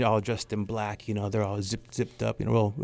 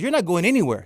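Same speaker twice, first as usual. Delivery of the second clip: high-pitched, raspy mock outrage; hammed-up raspy scolding; loud raspy imitation; 7 semitones higher than usual. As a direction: mimic a feisty girlfriend laying down the law. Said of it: "she does this really loud, raspy voice".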